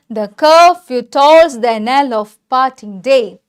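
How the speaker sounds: slow, measured reading of the verse line; slow recitation. Shown as a demonstration. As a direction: recite the line slowly, in connected phrases. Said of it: "അങ്ങനെ ഞാനിത് പറയാൻ കാരണം". (കവിതാവരി സാവധാനം ചൊല്ലുക)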